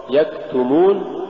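يكتمون with too much air released on the ك; exaggerated breath. Shown as a demonstration. Teacher warning of exaggeration, over-aspirated kaf in يكتمون. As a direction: overdo the puff after ك in يكتمون. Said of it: "مبالغة في تحقيق الهمز".

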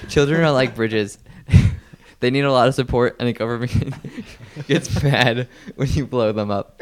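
retelling through giggles. Acted. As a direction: try to repeat the joke but keep cracking up. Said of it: "what was this joke".

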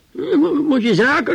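high, loud shout at the neighbours; yelling in outrage; retold shout. Old man yelling about the stink in the hallway, loud and high. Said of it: "riep ik".

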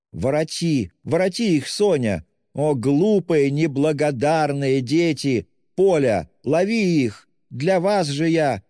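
high, loud anguished calling; wailing cry. A narrator's reading. Mother wails after the children while running. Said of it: "С воплем и плачем кинулась".

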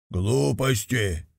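plain reading voice

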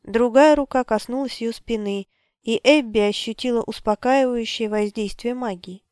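normal talking voice

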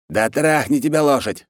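high-pitched exasperated outburst; yelled curse. Acted. Khan swears at his war chief, high exasperated yell. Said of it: "заорал хан".

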